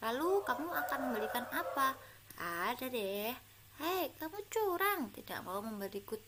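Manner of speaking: put-on lively read-aloud of a children's dialogue; storybook dialogue reading. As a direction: read the schoolbook conversation to pupils. Teacher reads a dialogue aloud.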